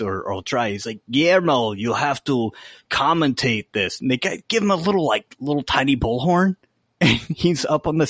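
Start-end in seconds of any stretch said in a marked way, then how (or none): 1.1-4.0 a light try at a bossy vampire master; Nandor's voice. Retold or imitated. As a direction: give the order, only hinting at his voice. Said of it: "I wanna talk in Nandor's voice".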